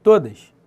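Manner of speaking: "Todas" said alone, loud and low, falling hard; "Todas" hammered home; emphatic repeat. Shown as a demonstration. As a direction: punch "Todas" as a final verdict. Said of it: "Todas as proparoxítonas são acentuadas".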